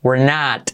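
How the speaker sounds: "not" with the final T almost silent; barely said T. Shown as a demonstration. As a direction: stop "not" before releasing the T. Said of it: "Esa T casi no se dice".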